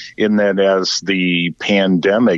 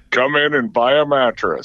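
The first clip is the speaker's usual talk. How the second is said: put-on fading Irish accent; 4 semitones higher than usual. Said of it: "it's no longer Irish accent".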